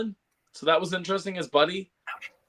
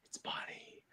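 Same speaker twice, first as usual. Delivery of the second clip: whisper; 21 dB quieter than usual. Retold or imitated. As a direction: imitate excited onlookers' hushed whisper. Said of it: "just hearing people whisper".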